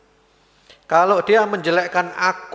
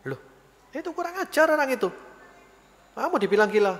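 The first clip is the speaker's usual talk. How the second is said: high, fast indignant outburst; angry guard; 10 semitones higher, faster than usual. Retold or imitated. Bodyguard raging at the man who insulted the caliph, angry. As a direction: sputter with outrage at the insult.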